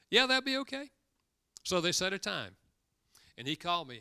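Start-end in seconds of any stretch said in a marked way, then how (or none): 0.1-0.9 brother's reply. Retold or imitated. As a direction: mimic the brother's surprised, cautious yes. Brother's reply repeated after laugh.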